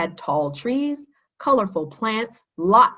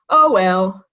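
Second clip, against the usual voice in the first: with a smile; 8 dB louder than usual. A narrator's reading. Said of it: "said Kenny with a smile".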